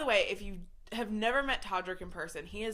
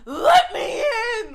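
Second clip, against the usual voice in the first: high, loud mock demand to be let in; mock shout to be let in; 14 dB louder than usual. Mock shout from a fan demanding to be let in. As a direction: yell it like an entitled fan at the door. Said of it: "I'm not the person that's like".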